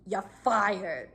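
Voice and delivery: flat, emotionless repeat; no emotion. Retold or imitated. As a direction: drop it with zero feeling. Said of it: "Like, no emotion whatsoever".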